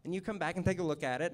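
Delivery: quoting Charlie. Retold or imitated. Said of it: "He says".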